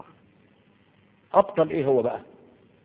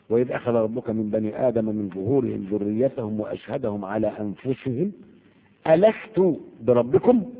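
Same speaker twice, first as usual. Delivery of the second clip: Quran recitation; 3 dB louder than usual. Acted. Teacher reciting Surat al-A'raf to the class, chanted. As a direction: intone it as scripture, lifting the divine question. Recites long verse from Araf.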